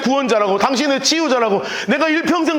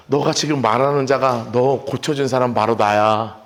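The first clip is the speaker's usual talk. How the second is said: low, slow, tender reveal; warm and gentle; 12 semitones lower, slower than usual. Retold or imitated. 예수님이 고침받은 맹인에게 자신을 드러내며, 낮고 느리고 다정하게. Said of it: "가장 따뜻한 눈빛이 나타나면서".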